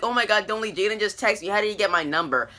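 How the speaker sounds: acted girlish urgency; mock excited plea. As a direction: retell it as a lightly squealed plea. Repeats the girl's excited plea.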